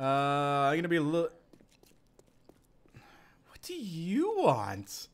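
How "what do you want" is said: whisper. Real, not acted. Creeping near the bear.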